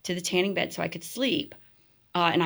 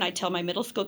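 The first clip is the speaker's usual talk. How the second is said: usual speaking voice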